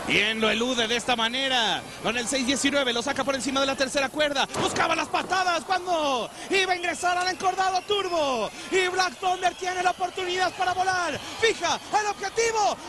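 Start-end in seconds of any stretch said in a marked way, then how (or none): 4.6-12.8 excited play-by-play. Real, not acted. High-flying move called live.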